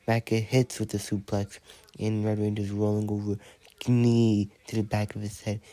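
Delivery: lively ringside play-by-play, rattled off; wrestling commentary. Acted. Announcer calling a toy wrestling match, lively. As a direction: call the action like a TV announcer.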